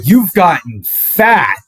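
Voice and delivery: blunt grandparents. Retold or imitated. Grandparents greeting him at door.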